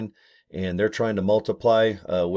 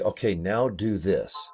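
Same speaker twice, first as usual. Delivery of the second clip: mock instructions; slower than usual. Shown as a demonstration. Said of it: "most of them are gonna be".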